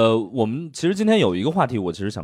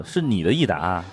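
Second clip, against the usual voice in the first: slow, tender ad line; 4 semitones lower, slower than usual. Retold or imitated. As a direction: deliver it like a romantic ad. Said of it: "那个益达嘛".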